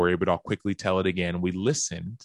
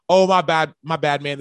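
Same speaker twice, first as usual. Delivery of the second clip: sheepish apology; 8 semitones higher, 6 dB louder than usual. Retold or imitated. Friend apologizes for pocket dial.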